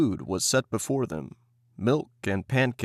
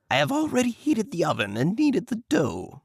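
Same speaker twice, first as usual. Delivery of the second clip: high sly witch voice; scheming witch; 10 semitones higher than usual. Acted. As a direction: sound helpful, mean harm. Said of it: "said the old woman".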